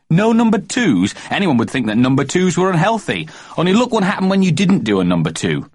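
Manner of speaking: put-on high, eager little boy; a small boy calling his mother; child's voice. A narrator's reading. Young Jeremy James calling to busy Mummy, high child voice.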